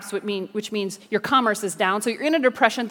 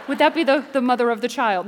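lightly voiced pious churchgoer. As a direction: gently imitate someone too holy for pop music. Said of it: "Y'all are holy. You're like".

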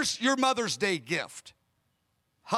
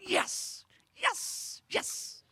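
whisper; 11 semitones higher, 7 dB quieter, much slower than usual. Real, not acted. Quietly cheering his sons' honor.

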